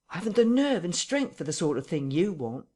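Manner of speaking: frightened tramp pleading with his captor; near tears. Acted. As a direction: beg like he might cry any second. Marvel begs off.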